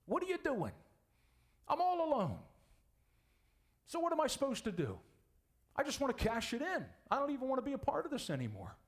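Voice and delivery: high, strained, weary lament; despairing Elijah. Acted. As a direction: sound like a man ready to quit. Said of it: "what he said to him".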